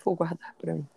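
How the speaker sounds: conspiratorial whisper. Real, not acted. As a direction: whisper it like a secret. Whispered repeat as a joke.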